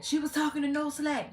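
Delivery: high, mocking voice; high sing-song mock of the viewers. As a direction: parrot the gossiping viewers mockingly. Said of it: "I don't want y'all to be like".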